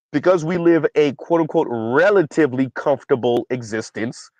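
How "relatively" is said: "relatively" stressed as a caveat; emphasis on RELATIVELY. Shown as a demonstration. Qualifying our comfortable existence, "relatively" pointedly emphasized. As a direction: lean on the word "relatively". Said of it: "emphasis on the relatively".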